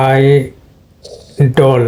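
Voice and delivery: আইডল said slowly as British "eye-dl"; British pronunciation of idol. Shown as a demonstration. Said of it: "আমরা আইডল বলি, কিন্তু ব্রিটিশরা বলে". (British উচ্চারণে আইডল, ধীরে)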